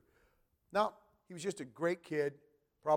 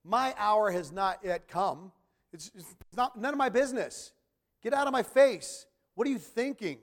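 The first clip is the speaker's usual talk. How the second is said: mock irritated rebuff; 4 semitones higher, 4 dB louder than usual. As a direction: brush her off with growing annoyance. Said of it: "That's what he's literally saying".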